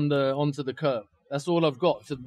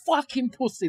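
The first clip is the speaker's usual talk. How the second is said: higher, heated mock yell at the guy; yelling insults at the attacker, replayed; retold angry shout; 7 semitones higher than usual. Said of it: "and I said".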